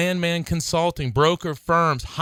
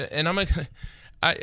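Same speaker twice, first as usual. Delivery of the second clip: laughing too hard to get the words out; can't talk for laughing; 2 semitones higher, 4 dB quieter, faster than usual. Real, not acted. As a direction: break up mid-word and dissolve into laughter. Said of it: "I can't even talk".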